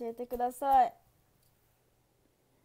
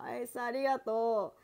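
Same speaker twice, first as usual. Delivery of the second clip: ordinary talk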